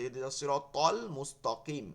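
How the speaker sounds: both t sounds thickened, tol and mustoqim; wrong double thick to. Shown as a demonstration. Teacher demonstrating the mistake that changes meaning, thick to in both words. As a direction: stress tol, then wrongly thicken Mustaqim's ta. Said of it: "এখানেও ত পড়তেছে".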